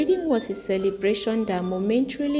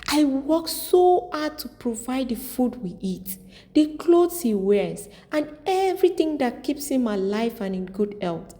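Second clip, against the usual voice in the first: tearful complaint; 3 semitones higher than usual. Acted. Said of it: "She broke down in tears".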